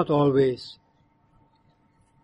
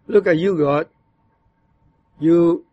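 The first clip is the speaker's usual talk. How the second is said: bitter complaint. Shown as a demonstration. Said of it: "that verse can be said in that tone".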